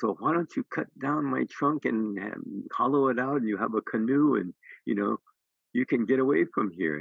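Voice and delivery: the gentle tree. Acted.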